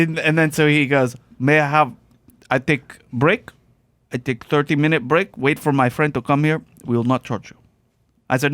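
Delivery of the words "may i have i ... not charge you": put-on broken English in a Russian accent. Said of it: "that accent".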